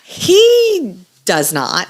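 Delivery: whispered denial. Real, not acted. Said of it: "denying in a whisper".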